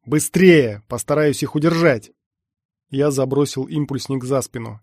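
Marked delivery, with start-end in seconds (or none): 0.1-2.1 loud, urgent command; urgent bark. A narrator's reading. Everest holding off the pursuers, urgent bark. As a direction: hurry them along under attack. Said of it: "рявкнул Эверест".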